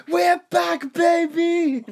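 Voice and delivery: high, loud mock German voice; German character voice. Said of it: "they do a char-, German character. It's like".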